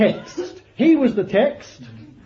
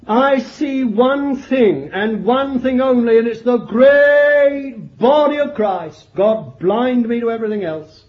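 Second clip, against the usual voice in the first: emphatic preaching; 2 semitones higher, 3 dB louder than usual. Acted. Solemn emphatic sermon climax.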